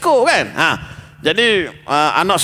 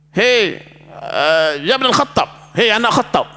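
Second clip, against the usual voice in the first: rough call; 2 semitones higher, slower than usual. Retold or imitated. Uyainah rudely hails Caliph Umar, harsh and curt. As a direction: bark at the caliph like a commoner. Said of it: "ni mana keras".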